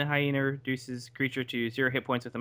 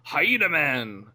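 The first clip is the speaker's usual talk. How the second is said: Hyena Man announcement; 4 dB louder, much slower than usual. Acted. Player announces his transformation.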